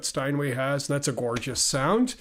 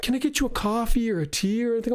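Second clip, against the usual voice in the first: put-on high, sweet old-lady greeting; imitating a kind elderly shop lady, pitched up; 5 semitones higher, faster than usual. Narrator imitates the kind Steinway store lady greeting him. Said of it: "She was like".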